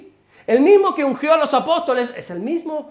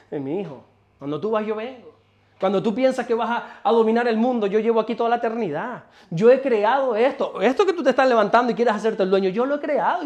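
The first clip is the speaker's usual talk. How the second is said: amused God. Retold or imitated. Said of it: "Dios desde los cielos dice".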